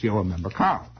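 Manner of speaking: "Carl" as if it had several Ks; hard German K. Acted. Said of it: "Three or four or five Ks".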